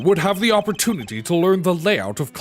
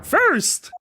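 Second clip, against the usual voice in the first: flashback voice; 7 semitones higher than usual. Acted. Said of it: "This is the flashback voice".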